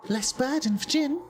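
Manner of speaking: high-pitched, evenly held creature voice; Jin, bargaining creature. Acted. Jin asks a visitor for an offering, high stilted creature voice. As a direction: speak high and stilted, like an odd little trader.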